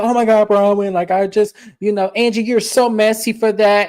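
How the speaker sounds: mock exasperated castmate. Retold reality-show quarrel.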